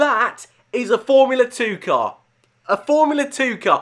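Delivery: hyped-up, loud, high excited shout blasting the mic. A speaker shows viewers a formula two car on screen, loud hyped shout. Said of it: "that's just destroyed your ears".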